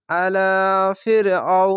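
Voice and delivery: আলা ফির আও with a lengthened লা; one-alif madd. Shown as a demonstration. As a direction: draw out লা in আলা one beat. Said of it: "খাড়ো জাবার এক আলিফ টেনে". (আলা-র লা এক আলিফ টেনে)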